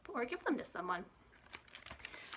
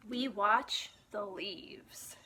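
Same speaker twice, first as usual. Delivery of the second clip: whisper; much slower than usual. Acted. Whispered line in story.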